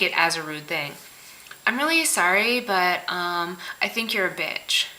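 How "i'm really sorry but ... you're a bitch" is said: mock apologetic lead-in, falling away at the end; insincere apology. Friend softening an insult, insincerely apologetic. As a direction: hedge it like a fake apology. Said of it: "Don't say that to me".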